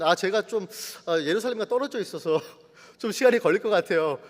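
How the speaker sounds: hesitant, chuckling polite refusal; awkward excuse. Acted. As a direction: stall and beg off sheepishly. Same excuse, transposed to Nethinim. (머뭇거리며 핑계 대는 말투)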